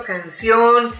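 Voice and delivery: "canción" with the stress on its final syllable, -ción; stress on last syllable. Shown as a demonstration. Teacher giving an example of an aguda, "canción" stressed on "ción". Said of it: "la mayor entonación de voz".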